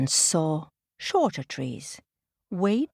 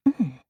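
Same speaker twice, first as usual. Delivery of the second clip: curious sniff; 4 dB louder than usual. Acted. Tina smells her first banana, curious sniff. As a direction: sniff and approving hum.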